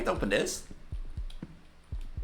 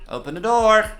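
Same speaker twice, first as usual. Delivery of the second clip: loud, raised demanding voice; threatening intruder; 9 semitones higher, 5 dB louder than usual. Acted. Intruder demands worker open the door, loud threat. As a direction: call out an ultimatum through the door.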